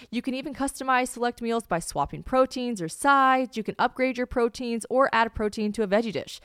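upbeat sponsor read with punchy key words. Real, not acted. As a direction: sell it like a chatty podcast host. Reads a sponsor ad.

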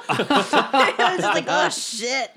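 laughing through the words; can't stop giggling. Real, not acted. Laughing about the roll.

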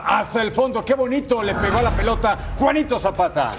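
lively highlight play-by-play; goal commentary. Acted. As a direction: call the goal replay with energy.

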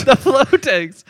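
high, loud, stretched-out cry; mock panic. Co-host joining the soldiers' alarm, mock panicked shout. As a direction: echo the alarm at full hammy volume.

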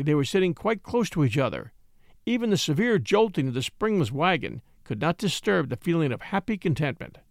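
usual speaking voice

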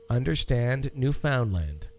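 Understand Newfoundland, land and stand rhymed; rhyming stress. Shown as a demonstration. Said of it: "The emphasis is on, on understand".

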